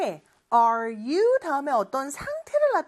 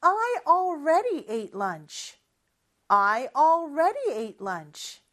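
slow repeat-after-me; 2 semitones higher, much slower than usual. Shown as a demonstration. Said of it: "큰 목소리로 따라해볼까요".

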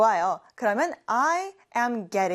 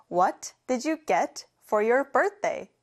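slow model sentence; much slower than usual. Shown as a demonstration. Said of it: "제가 방금 말한 문장에".

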